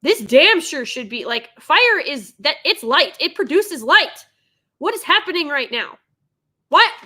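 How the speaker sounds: loud, punchy, indignant complaint; exasperated rant. Real, not acted. Viewer tearing apart the trailer's lighting, loud exasperated rant. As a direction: rant at it, hitting the key words hard.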